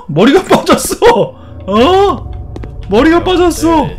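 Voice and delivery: high-pitched startled exclamation; shocked disbelief. Real, not acted. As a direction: cry out at a shocking discovery. Discovers a head has fallen off. (경악하며 높은 목소리로)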